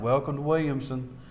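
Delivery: lightly imitated southern twang. Investigator mimicking the voice from the recording, southern twang. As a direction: greet them in a southern twang. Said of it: "that, that southern twang".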